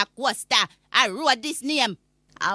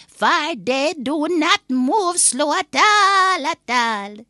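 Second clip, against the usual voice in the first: emphatic slow insisting; 4 semitones higher, 5 dB louder, slower than usual. Acted. Granny insisting about fast taxis.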